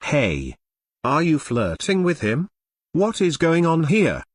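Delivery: mock jealous boyfriend demanding answers; jealous accusation. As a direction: confront her like a jealous boyfriend.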